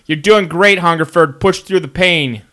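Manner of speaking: pep-talk coach voice; motivational coach. Pretend. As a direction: cheer him on through a workout. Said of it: "give him motivation".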